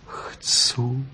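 humble whisper. A narrator's reading. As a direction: breathe a meek yes. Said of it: "odvětila pokorně".

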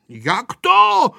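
loud, high burst of surprise; astonished question. A narrator's reading. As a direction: exclaim it in amazement. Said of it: "divil se Vojta". (udivené zvolání)

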